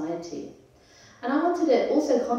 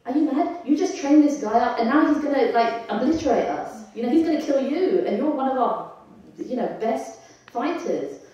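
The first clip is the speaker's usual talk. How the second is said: higher-pitched, mock-indignant sarcasm; sarcastic retort; 4 semitones higher, 4 dB louder than usual. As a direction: act out an obnoxious prince scolding his teacher. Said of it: "he's really being sarcastic here".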